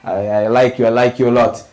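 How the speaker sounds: put-on Arab accent. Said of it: "with the thick Arab accent".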